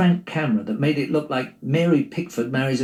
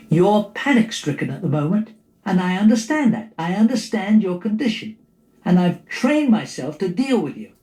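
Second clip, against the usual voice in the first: higher, patronising soothing; mock sweet reason; 4 semitones higher than usual. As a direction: talk her down like a know-it-all. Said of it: "I was all sweet reason".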